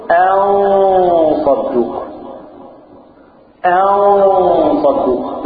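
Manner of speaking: "أن صدوق" with the نون hidden and held as a long nasal hum before the ص; "أن صدوق" very slow, nasalized, the n hidden; ikhfa demo. Shown as a demonstration. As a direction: stretch the نون in "أن صدوق" into a slow nasal glide without a clear n. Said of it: "نقول".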